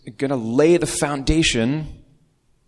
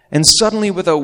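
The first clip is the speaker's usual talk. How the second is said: dramatic burst; 9 semitones higher, 6 dB louder, faster than usual. A narrator's reading. Dramatic turn in the story.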